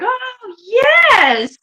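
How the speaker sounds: high, drawn-out squeal of delight; thrilled kitten's squealed yes; gleeful kitten. Acted. Kitten spots the bread box, squealing delight. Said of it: "She's like".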